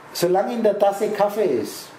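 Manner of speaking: "Kaffee" with the stress on the "affe" part. Shown as a demonstration. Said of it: "Betonung liegt auf Affe".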